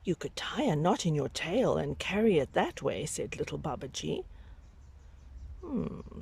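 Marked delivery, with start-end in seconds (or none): 0.0-3.1 put-on hushed, breathy child's suggestion; little Babaji whispering. Little Babaji whispers his clever idea to the tiger. Babaji's line in read story. 5.6-6.2 high, soft considering hum; a thoughtful mock hum from the tiger; tiger's musing hum. Tiger ponders Babaji's idea with a high musing hum.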